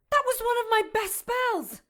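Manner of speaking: indignant outburst. Acted. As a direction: protest your wounded pride. Indignant at failed spell.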